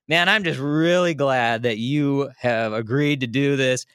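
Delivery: slow and dreamy, a bit spaced out; real relaxed. Retold or imitated. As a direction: thank him like you're floating. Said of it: "I must have been talking real relaxed".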